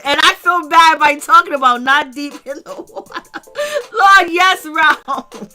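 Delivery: words broken up by laughter; giggling through the sentence; laughing. Real, not acted. Vlogger laughing at the cast's rude remarks, giggly and breaking. Cracking up at the cast.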